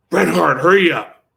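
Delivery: loud summons across the room; boss calling out. Retold or imitated. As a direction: call him to the phone, urgent. Boss calls him to phone.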